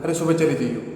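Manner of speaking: husband telling wife to leave tomorrow, mildly heated; heated retort. Acted. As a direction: blurt it out in the heat of the fight. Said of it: "जोश जोश में गुस्से गुस्से में बोल देता है".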